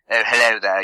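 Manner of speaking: lightly put-on stereotypical British greeting; a hint of the British accent Americans expect; typical British accent. Shown as a demonstration. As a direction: do a mild stock British hello. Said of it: "typical British accent Americans seem to think".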